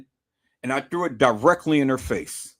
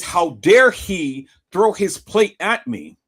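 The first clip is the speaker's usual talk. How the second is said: mock indignant pastor; 6 dB louder, slower than usual. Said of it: "all like this".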